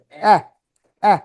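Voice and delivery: short এহ with the jaw dropped; open jaw vowel. Shown as a demonstration. Teacher explaining that the jaw goes down, open short vowel. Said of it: "চোয়ালটা নিচে নামবে".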